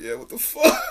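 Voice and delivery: high, laughing mock agreement. Stoned self answers sober self, laughing high. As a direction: crack up while agreeing. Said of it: "And I'm like".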